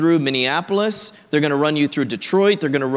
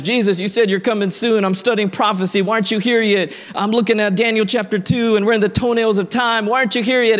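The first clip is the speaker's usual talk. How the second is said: impatient believers; 5 semitones higher than usual. Retold or imitated. Impatient believers voiced in sermon.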